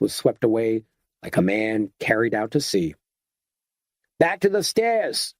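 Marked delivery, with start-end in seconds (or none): 4.2-5.3 raised urgent call, falling at the end; bellowed. A narrator's reading. Garnish orders the group back to the stairs, bellowing. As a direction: order everyone back with a high shout. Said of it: "bellowed Kenneth Garnish".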